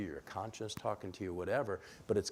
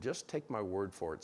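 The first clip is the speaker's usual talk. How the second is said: dry sarcastic delivery. Shown as a demonstration. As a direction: say it with Rhode Island sarcasm. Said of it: "Sarcasm is an art form back there".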